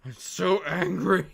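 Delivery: slow, loud, laughing fake fury; hammed-up anger dissolving into laughs; laughing mock anger. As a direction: pretend to fume while cracking up.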